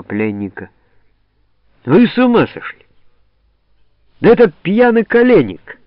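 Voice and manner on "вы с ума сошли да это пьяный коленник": потрясённый крик. Acted. Голова узнаёт свояченицу в пленнике.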